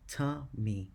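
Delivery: "tummy" split into two beats; counting syllables. Shown as a demonstration. Teacher counting two syllables in the last line, beat by beat. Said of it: "and two syllables".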